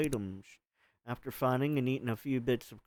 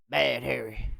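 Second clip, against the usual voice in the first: scolding; 3 semitones lower than usual. Acted. Scolding the corpse.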